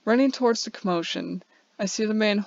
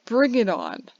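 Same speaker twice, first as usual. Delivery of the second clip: cheering; 3 semitones higher, 4 dB louder than usual. Acted. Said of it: "I cheer".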